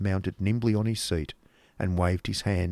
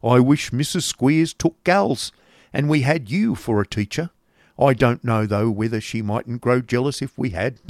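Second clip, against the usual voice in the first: coarse schoolmaster; 3 semitones higher than usual. Acted. Schoolmaster joking with the young lady, coarse. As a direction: draw out the opening, coarse and jocular. Voicing Squeers.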